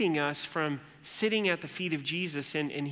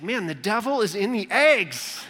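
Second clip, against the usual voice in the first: mock grumbling Martha; 4 semitones higher, 6 dB louder than usual. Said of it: "she's like".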